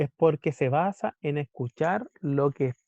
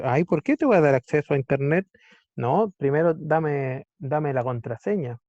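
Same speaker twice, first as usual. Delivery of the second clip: louder, fast, indignant router voice, then slowing on the demand; suspicious router; 5 dB louder than usual. Acted. Router refuses the laptop, loud and indignant. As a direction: play the gatekeeper who won't let anyone in.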